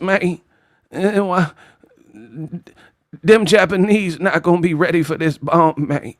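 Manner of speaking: a hint of Terrence Howard asking about the bomb; Terrence Howard in Oppenheimer. Terrence Howard questioning Oppenheimer, lightly mocked. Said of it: "Terrence Howard in Oppenheimer".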